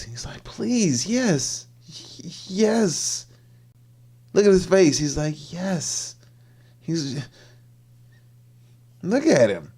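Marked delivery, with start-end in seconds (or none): 0.4-3.3 high-pitched mock begging; eager pleading. Acting out man eagerly begging. 5.5-6.2 high, drawn-out mock delight; eager yes. Acting out man's eager yes.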